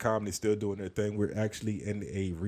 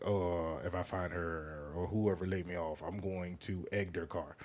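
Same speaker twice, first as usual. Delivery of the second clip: bitter grumble; 2 semitones lower, 5 dB quieter than usual. Retold or imitated. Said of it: "Being bitter would be like me being like".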